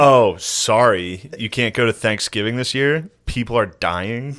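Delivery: slow, drawn-out mock apology; sassy. Mayor cancelling Thanksgiving, mockingly sassy. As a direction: imitate a sassy politician, stretching the words. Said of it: "I'm saying he was sassy".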